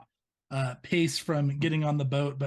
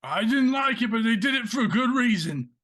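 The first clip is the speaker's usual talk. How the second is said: raised, high-pitched protest; defensive outburst; 6 semitones higher, 4 dB louder than usual. Acted. Man defending his family over his brother's death, heated. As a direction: push back forcefully in self-defence.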